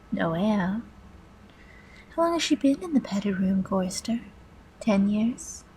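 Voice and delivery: hushed, needling villain questions; taunting master computer. Acted. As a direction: taunt in measured pieces, dropping to a hush.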